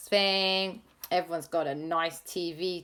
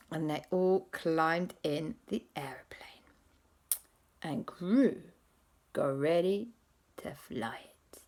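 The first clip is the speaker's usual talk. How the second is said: whisper; 4 dB quieter than usual. Acted. Storyteller drops to whisper.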